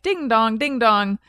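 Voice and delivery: slow sung ding dong chime; timer impression. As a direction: imitate a doorbell timer, badly. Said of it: "terrible impression of a timer".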